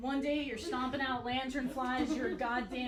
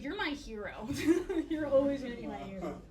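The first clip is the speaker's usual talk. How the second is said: mock sincere. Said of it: "I was like".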